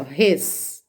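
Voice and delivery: "res" drawn out slowly and cut off before the rest of the word; word broken at hyphen. Shown as a demonstration. Teacher showing a hyphenated line ending, "res" slow and left hanging. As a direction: stop after "res", as at a line break. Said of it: "termina com tracinho".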